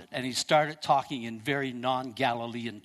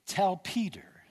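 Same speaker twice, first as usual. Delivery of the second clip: whisper; 4 semitones higher, slower than usual. Acted. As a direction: breathe the name like a secret. Jesus singling Peter out tenderly.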